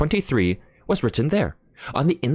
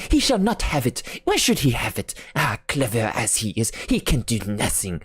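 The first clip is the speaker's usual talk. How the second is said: exclaiming. Acted. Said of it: "and exclaimed".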